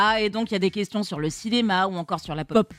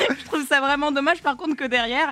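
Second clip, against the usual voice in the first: stifled giggles. Real, not acted. Both giggling after the joke.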